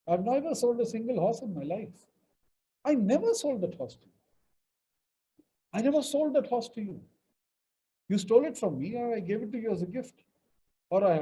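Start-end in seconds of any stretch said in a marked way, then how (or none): 2.8-4.2 higher pitch, never stressed. Shown as a demonstration. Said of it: "depending on where the emphasis is". 5.7-7.0 higher pitch, that stressed. Shown as a demonstration. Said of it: "depending on where the emphasis is".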